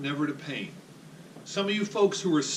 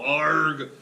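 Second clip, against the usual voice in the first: brief loud pirate "arg"; pirate growl; 6 dB louder than usual. Shown as a demonstration. Instructor cueing the patient to tighten up, pirate growl. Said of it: "The other one is a pirate".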